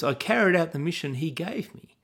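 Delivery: "carried" leaned on with a questioning rise, lightly mocking; quoting Saul's excuse. Shown as a demonstration. Preacher replaying Saul's excuse to listeners, lightly mocking rise. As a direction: hold up the excuse for the congregation to hear. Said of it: "Do you notice the way Saul says".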